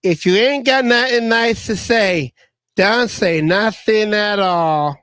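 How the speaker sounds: lightly voiced cartoon Thumper, drawn out at the end; a hint of Thumper, slow finish; Thumper impression. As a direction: quote it like little Thumper, stretching the last words. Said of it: "remember what Thumper said?".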